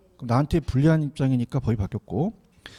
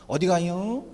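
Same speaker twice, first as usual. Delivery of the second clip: Chungcheong accent; 4 dB quieter, slower than usual. Shown as a demonstration. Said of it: "이렇게".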